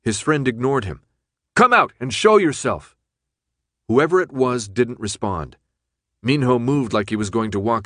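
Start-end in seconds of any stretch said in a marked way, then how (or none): 1.5-3.0 loud, raised challenge; loud dare toward the shadows; calling out. Acted. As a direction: call them out of hiding. Minho calling out to the stranger.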